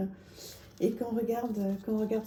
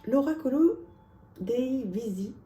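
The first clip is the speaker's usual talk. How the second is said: a light, playful Italian accent on the title, pitched higher and louder; 3 semitones higher, 5 dB louder than usual. Shown as a demonstration. Presenting her Italian oracle deck to viewers, tries an Italian accent. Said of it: "avec mon accent italien".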